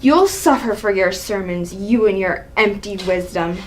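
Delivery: low, menacing threat; cold anger. Acted. Father forbidding his son's marriage, menacing. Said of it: "Seeing the angry side of her".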